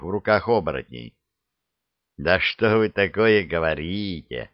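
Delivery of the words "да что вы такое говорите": coaxing, ingratiating. Acted. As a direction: sweet-talk the guards. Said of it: "ласково зажурчал вкрадчивый голос Алёши".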